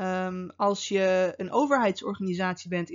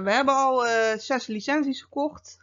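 higher-pitched mock colleague reporting in; lightly voiced colleague; 4 semitones higher, 3 dB louder than usual. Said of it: "het moment waarop ze bij je komen".

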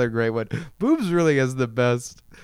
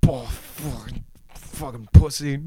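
mock horny moaning. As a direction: ham up a horny guy, building up. Men in bed imitated.

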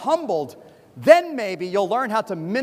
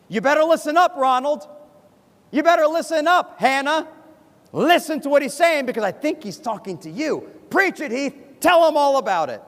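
higher-pitched, self-righteous congregant; accusing egging-on; 5 semitones higher than usual. Acted. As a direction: point the finger and cheer the preacher on. Congregant eggs preacher on at others.

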